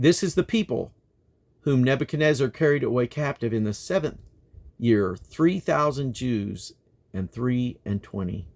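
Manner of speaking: measured, declaiming reading; scripture reading. Acted. Reader to listeners, measured solemn reading. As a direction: read the list of enemies with weight.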